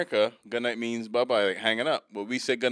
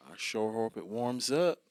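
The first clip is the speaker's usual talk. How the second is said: slow, imitated Southern drawl; slower than usual. Man in an Alabama restroom, slow mock Southern drawl. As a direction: stretch it out like a Southern local. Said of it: "The guy said".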